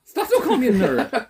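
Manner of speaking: high laughing protest. Real, not acted.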